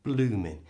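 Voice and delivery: bloomin' ending on N, no G; bloomin' clipped at the N; silent G. Shown as a demonstration. Teacher repeating bloomin' for learners. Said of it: "Stops on the N sound".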